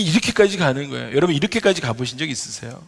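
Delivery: ordinary delivery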